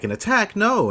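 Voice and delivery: high-pitched, lightly acted panic; mock alarm. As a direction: imitate someone crying out at an attack. Voices Rickett discovering an attack.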